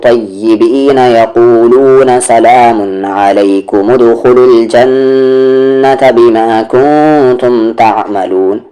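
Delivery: very slow, sustained chant; Quran recitation. Shown as a demonstration. Teacher reciting on without stopping at lam alif, slow measured chant. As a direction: carry the verse on in long held tones.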